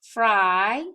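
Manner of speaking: "fry" alone, loud, long I held; "fry" as a separate, emphatic syllable; syllable sounded out. Shown as a demonstration. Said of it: "In that first syllable".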